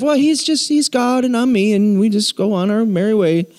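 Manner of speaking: put-on Southern churchgoer; lightly hammed Southern accent. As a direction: slip into a casual Southern accent. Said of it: "I don't know why I'm Southern".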